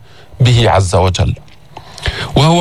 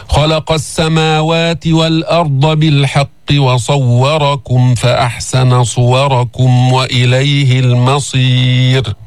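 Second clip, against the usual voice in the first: slow melodic tajwid recitation; measured Quranic recitation; slower than usual. Shown as a demonstration. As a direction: chant the verse slowly. Recites the verse in full.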